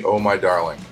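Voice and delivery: ordinary delivery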